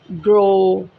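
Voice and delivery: ग्रो with a plain long o; o sound demo. Shown as a demonstration. Teacher contrasts ग्रो with the aao sound. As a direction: say ग्रो on a steady o. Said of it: "अब यहाँ पे ओ की sound है".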